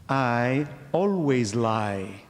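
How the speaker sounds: "I always lie" drawn out very slowly, leaning on "always"; slow deliberate statement. Shown as a demonstration. Preacher demonstrating the liar's paradox to his listeners, slow and deliberate. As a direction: say "I always lie" slowly, each word laid out for the congregation. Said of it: "If I say to you".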